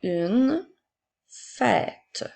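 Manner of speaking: each word spaced out and clearly set apart; slow dictation. Shown as a demonstration. Teacher dictating to a child, slow and distinct. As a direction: dictate slowly to a pupil writing. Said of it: "fais attention à ton accent".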